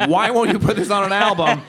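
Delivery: mock-earnest fan pleading. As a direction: pester him with a fake-earnest ask. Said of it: "earnestly send them to him".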